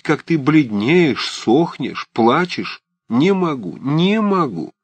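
put-on old woman who can't hold it in; distraught old aunt. A narrator's reading. Old aunt pouring out her worry to Liza.

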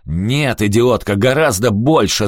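put-on a thug yelling at his girlfriend. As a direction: bawl her out for asking too little. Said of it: "заорал Рики".

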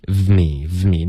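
"V me" with the buzz running into m; linked v-m. Shown as a demonstration. Teacher drilling the join for learners, continuous sound. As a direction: join "V me" without any break. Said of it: "你能把它让它越连贯越好".

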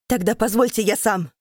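loud resolute demand; determined shout. Acted. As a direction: insist on doing it himself. Keita demands to kill her.

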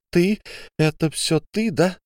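high, stunned accusation; turning on Ariadne accusingly; accusing shock. Acted. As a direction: round on her in disbelief. Olga turns on Ariadne.

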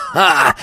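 short high "ha!"; triumphant bark of a laugh; roared laugh. A narrator's reading. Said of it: "взревел тот". (торжествующее «ха»)

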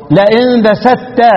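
لئن بسطت drawn out, ط fully merged into ت; slow recitation demo. Shown as a demonstration. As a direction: recite لئن بسطت slowly as if the ط were gone. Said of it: "يبقى هتنطق إيه".

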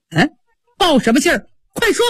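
a high, snapped order; high impatient snap; sharp command. Acted. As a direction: demand it at once, cutting her off. Mistress demands the truth.

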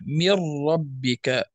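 slow "من ربك", R doubled without excess; restrained trill. Shown as a demonstration. Teacher repeats the correct recitation, restrained trill. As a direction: merge n into a controlled ر in "من ربك". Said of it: "بدون مبالغة وبدون".

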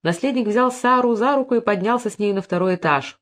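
ordinary delivery

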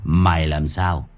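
put-on lightly slurred drunk voice; drunken slurring. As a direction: slur like a cocky drunk. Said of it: "cất lên cái giọng lè nhè, xem chừng đã say lắm".

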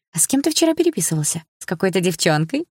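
playful teasing. Acted. Little sister teasing her brother about a girl, playful. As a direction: tease her brother with glee. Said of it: "продолжала веселиться Саша".

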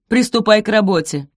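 loud clipped command; stern order. Acted. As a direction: bark the order. Araminta orders Sophie.

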